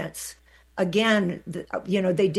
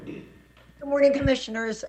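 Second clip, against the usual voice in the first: teeth chattering; 7 semitones higher than usual. Real, not acted. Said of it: "if my teeth are chattering".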